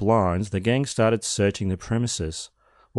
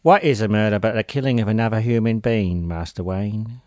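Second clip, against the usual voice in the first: Michael Caine. Retold or imitated. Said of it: "please tell me you, you are doing it all in Michael Caine".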